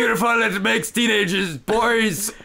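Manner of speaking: mock high cracking voice. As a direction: tease her cracking voice. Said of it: "if I keep talking like this".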